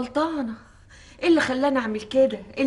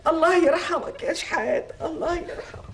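grieving lament; 3 semitones higher than usual. Acted. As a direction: linger over the name in grief. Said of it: "repeated lament, slower".

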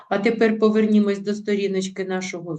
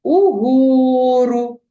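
"Угору" slow, high and loud, hitting "го"; stress on "Во"; 5 semitones higher, 6 dB louder, much slower than usual. Shown as a demonstration. Teacher showing pupils the stressed syllable in "Угору", loud and slow. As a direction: drag out "Угору" and punch the stressed "го". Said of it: "Вимовляємо з більшою силою голосу склад Во".

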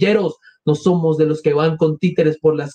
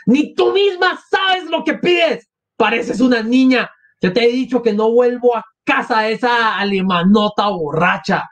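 frantic mother; 6 semitones higher than usual. Acted. Katerina's frantic voiced speech.

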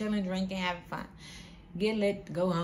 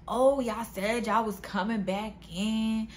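mock pestering caller; 3 semitones higher, slower than usual. Pushy men phoning the women who left, mock pestering. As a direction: imitate a nagging caller, stretching the words.

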